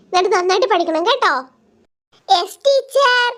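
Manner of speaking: teacher telling off pupils who failed; stern teacher. Acted. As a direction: lecture the class like a strict teacher. Teacher scolds the failing students.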